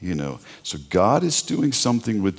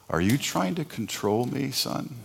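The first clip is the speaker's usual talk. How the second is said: gentle rebuke; 6 semitones higher, 5 dB quieter than usual. Retold or imitated. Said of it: "the Lord spoke to me".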